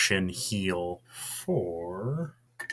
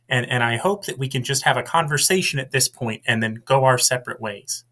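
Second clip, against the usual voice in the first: diplomatic appeal; 4 semitones higher than usual. Acted. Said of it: "looks up and says".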